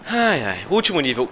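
ordinary delivery

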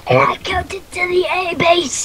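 put-on whispered old-timey voice; raspy whisper of an old-timer; old-time voice. Shown as a demonstration. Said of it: "I can do an old time voice".

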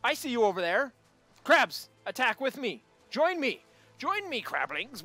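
mock battle cry to an army; playful rallying call. Player rallying crabs to attack, playful rallying call. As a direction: call out, high and loud.

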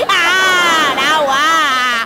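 overacted sobbing plea to be hit; hammed-up wailing. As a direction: wail in mock pain, begging. Son-in-law hams getting beaten.

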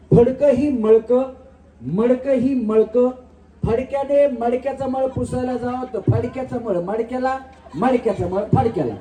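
each syllable slow and distinct; slow clear tongue twister. Shown as a demonstration. Host demonstrating the tongue twister to contestants, slow and clear. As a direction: spell the twister out slowly for the contestants. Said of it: "आता व्यवस्थित ऐका".

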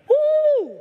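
loud, high woo; cheering whoop. Retold or imitated. Remembering the roaring opening game, loud high whoop. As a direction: whoop like a stadium crowd.

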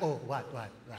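low, very soft taunt; mock-innocent murmur from behind; mom needling. Mom behind her searching son, low soft teasing. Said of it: "my mom's right behind me like".

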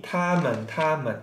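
"tamen" with level first syllable, falling light second; same pronunciation twice. Shown as a demonstration. Teacher showing two words read the same, "tamen" in careful Mandarin. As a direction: say "tamen" identically both times. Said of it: "Cara bacanya sama".

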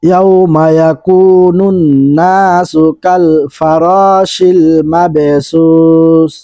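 drawn-out Quranic recitation; slow recitation. Shown as a demonstration. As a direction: stretch the madd slowly, recite. Reciting next verse. (ধীর তিলাওয়াত)

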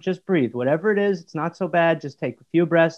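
soft, soothing calming voice. Shown as a demonstration. Son demonstrates to mum how to calm someone, softly. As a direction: soothe a panicking person softly. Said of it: "You just go".

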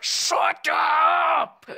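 irritated, drawn-out yell; exasperated shout. Acted. Housemate silencing a wailing fan, exasperated shout.

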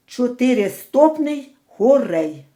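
ordinary talk, nothing marked

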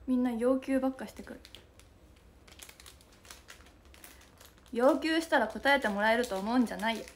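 put-on tough delinquent-girl scolding. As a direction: talk down to them like a sukeban. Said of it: "急にスケバンみたいになっちゃった".

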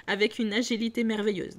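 ordinary delivery, nothing marked

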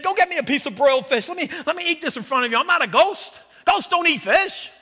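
mock Jesus, loud and eager. Jesus quoted after resurrection.

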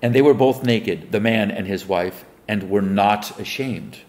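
measured Bible reading voice; solemn King James recitation; scripture reading. Acted. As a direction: read the verse like a preacher at the lectern. Reads scripture aloud.

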